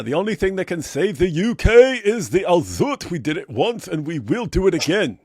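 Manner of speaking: hint of a rallying speech; mock proclamation. Host reads a viewer's boast aloud, mock proclamation. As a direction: declaim it with bouncy mock pride.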